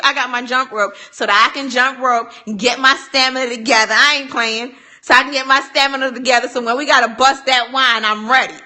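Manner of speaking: loud, excited bragging; hyped up. Real, not acted. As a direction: pump it up, playful trash talk. Hyped boasting about her jump rope.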